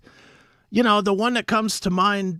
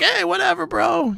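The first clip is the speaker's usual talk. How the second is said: casual customers; 12 semitones higher than usual. Retold or imitated. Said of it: "And they all were like".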